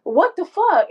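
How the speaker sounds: high-pitched imitated upset; mildly tearful retold outburst; retold tearful protest. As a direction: act out crying in disbelief. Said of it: "like, I'm crying".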